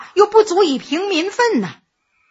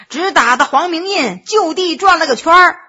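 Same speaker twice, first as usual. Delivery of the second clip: ordinary delivery, nothing marked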